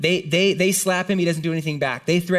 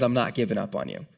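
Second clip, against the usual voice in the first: lower, gently spoken promise; a touch of quiet comfort; gentle reassurance; 5 semitones lower, 4 dB quieter than usual. Acted. God to the ashamed, gently reassuring.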